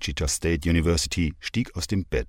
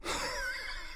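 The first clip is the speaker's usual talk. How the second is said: put-on low breathy drunken chuckle; soft breathy laugh; 13 dB quieter than usual. Drunk man laughing quietly at her threat. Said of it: "dann lachte er".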